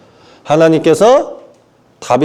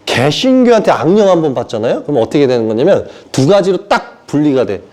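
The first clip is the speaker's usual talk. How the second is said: ordinary talk, nothing marked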